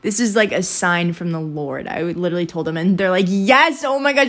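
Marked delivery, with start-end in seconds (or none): 3.3-4.3 high re-enacted squeal of agreement; excited freak-out. Girls thrilled by a sign from the Lord, excitedly. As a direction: freak out happily, pitched up. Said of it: "We all started freaking out".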